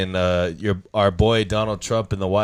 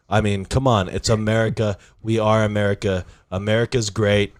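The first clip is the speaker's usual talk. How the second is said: lightly voiced president, bragging rally talk; a hint of a boastful politician wrapping up a speech; Donald Trump impression. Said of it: "I'll answer it like I'm Donald Trump".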